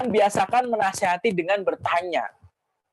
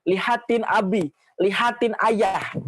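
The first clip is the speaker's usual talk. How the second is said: gentle coaxing; 3 semitones higher, slower than usual. Shown as a demonstration. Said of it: "suruh natap matanya".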